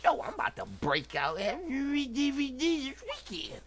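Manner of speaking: high, put-on voice imitating eager viewers; mock excited viewers. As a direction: pitch it way up, mimicking excited fans. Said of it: "Y'all like".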